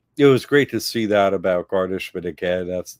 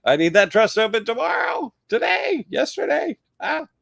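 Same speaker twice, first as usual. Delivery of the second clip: high, frantic mock yell; mock panicked shout. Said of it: "But usually it's like".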